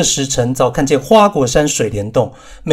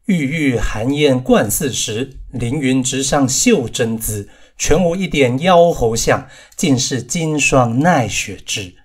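poem recitation. A narrator's reading. Verse recited in narration.

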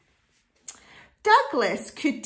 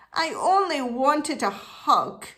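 mildly sniffy storybook protest; understated bear's lament; sniffy hurt; 3 semitones higher than usual. Acted. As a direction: say it with a touch of hurt. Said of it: "sniffed Douglas".

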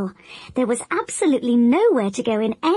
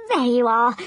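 bruised voice. Acted. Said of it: "in rather a bruised voice".

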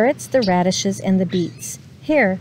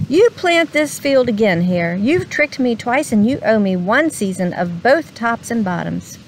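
growl. Acted. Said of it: "Bear growled".

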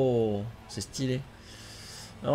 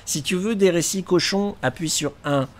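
laughing; 3 semitones higher, 9 dB louder than usual. Real, not acted. Mimicking hotline menu, cracking up.

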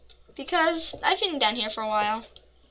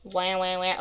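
mock crying; 2 semitones lower, 4 dB quieter than usual. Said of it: "I am going to cry".

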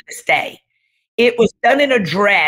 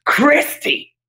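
calling out through tears; crying out; 8 semitones higher than usual. Real, not acted. Crying while telling the story.

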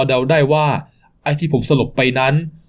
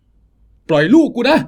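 higher, loud and slow; desperate shout; 8 semitones higher, 3 dB louder, much slower than usual. Acted. Father screaming at the thug to release his son, slow and high. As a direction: fight for your son.

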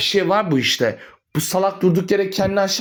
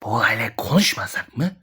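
mocking echo; 9 semitones lower than usual. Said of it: "mocking repeat of son's words".

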